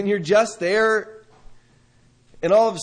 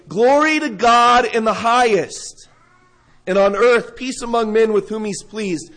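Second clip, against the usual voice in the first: proclaiming angels; 3 semitones higher, 4 dB louder than usual. Acted. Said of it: "and they say".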